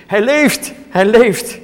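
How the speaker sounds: high, loud, jubilant shout; joyful cry. Acted. Bystander at the tomb, high joyful shouting. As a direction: burst out with amazed joy. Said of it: "En iemand riep toen".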